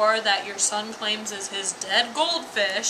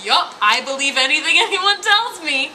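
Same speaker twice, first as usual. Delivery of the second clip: higher, mock-eager agreement; gullible mom; 5 semitones higher, 4 dB louder than usual. Mom accepts whatever she's told, mock gullible. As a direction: imitate someone happily swallowing every story. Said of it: "She is just so like".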